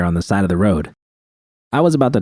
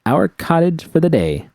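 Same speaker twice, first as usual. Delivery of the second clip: higher, bright cheerful announcement; announcing; 9 semitones higher than usual. A narrator's reading. Judy showing V the cottage, playful proud announcement. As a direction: present the place with a flourish. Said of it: "I announced".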